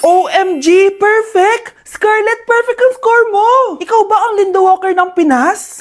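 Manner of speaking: rising giddy praise, voice climbing up; gushing excited. Acted. Classmate to Scarlett, gushing and squealing. Classmate gushes over perfect score.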